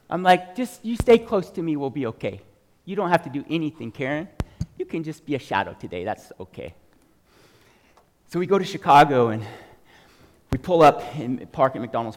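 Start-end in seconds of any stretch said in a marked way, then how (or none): 0.6-6.7 tag. Retold or imitated. Retelling reassurance to a scared trainee.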